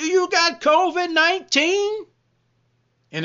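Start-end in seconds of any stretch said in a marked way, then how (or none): 0.0-2.0 play-acted, slow, drawn-out, very high shout. Acting out a homeowner shouting a question at an intruder: acting out a shout. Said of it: "they're gonna shout to them".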